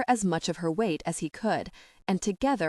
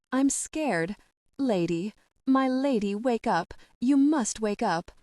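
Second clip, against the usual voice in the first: put-on scared pleading boy; 4 semitones higher than usual. Frightened boy begging lady wake.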